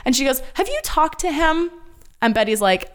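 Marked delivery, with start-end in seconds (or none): 0.5-1.7 imitating Polly. Polly voiced in recap.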